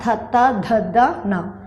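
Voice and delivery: థత్త, దద్ద, న with tongue touching the teeth; teacher's demonstration of dental థత్త, దద్ద, న; dental sounds. Shown as a demonstration. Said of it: "వాటిని తాకుతూ పలికే అక్షరాలను".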